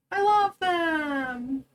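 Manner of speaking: slow, drawn-out tearful coo; melting over her new babies; tearful gush. Real, not acted. Streamer coos tearfully over the newborn Sims babies, slow and drawn out.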